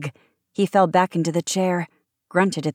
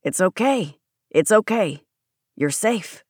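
firm, mildly soothing reassurance. A narrator's reading. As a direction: talk someone down from panic. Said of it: "Shepard soothed".

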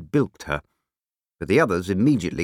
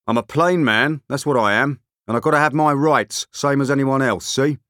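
higher, rough, self-justifying bluster; belligerent big man; 5 semitones higher, 4 dB louder than usual. A narrator's reading. Big man to no one in particular, blustering. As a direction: assert yourself loudly to all around.

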